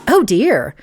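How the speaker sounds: fake, lilting dismay; feigned surprise. A narrator's reading. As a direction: pretend to be sorry. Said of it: "Gracie feigned surprise".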